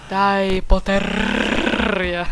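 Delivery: very slow, stretched, mock-menacing Potterrie; meant-to-be scary villain. Gamer playing the villain at Harry, failed scary voice. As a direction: drag the name out trying to sound scary. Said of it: "to miało być straszne".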